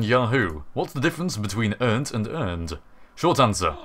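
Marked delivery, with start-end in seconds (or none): 1.8-2.8 "earned" with a t ending, then with a d ending; contrasting endings. Shown as a demonstration. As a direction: tell the two "earned" apart by final t and d. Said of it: "spelt with a E D or a T".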